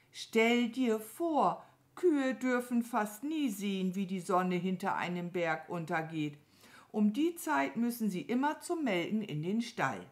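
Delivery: leicht gespielte, staunende Kuh; staunende Mama Mu. Acted. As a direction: etwas angehobene, schwärmende Erzählfigur. Mama Mu staunt über Sonnenuntergang. (staunende Kuh, leicht angehoben)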